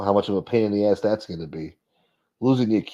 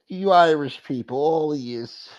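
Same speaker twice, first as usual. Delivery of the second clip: mock insult quote; 6 semitones higher than usual. Quoting the insult mockingly.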